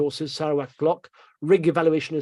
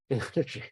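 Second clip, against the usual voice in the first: quiet laugh; 3 semitones lower, 8 dB quieter than usual. Real, not acted. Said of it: "I don't know why I'm laughing".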